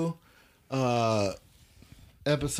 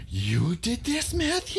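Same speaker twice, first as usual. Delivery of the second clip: high, slow surprised grandma; mom's voice; 13 semitones higher, slower than usual. Retold or imitated. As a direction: sing out the question like mom. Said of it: "That was my mom's voice".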